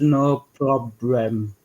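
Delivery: "no problem" drawn out in mock Asian accent, L and R swapped. Joker imitating an Asian lawyer, slow mock Asian accent. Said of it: "They always get the L's and the R's".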